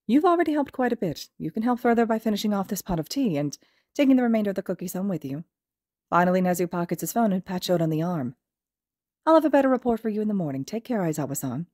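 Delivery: a courteous, gently cheerful headmaster; Nezu's voice. Acted. Nezu dismisses Shota.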